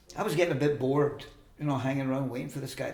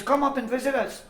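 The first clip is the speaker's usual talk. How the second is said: high, loud imitation of an invitation; retold calling out; 11 semitones higher, 5 dB louder than usual. Woman invites departing traveller, retold calling out.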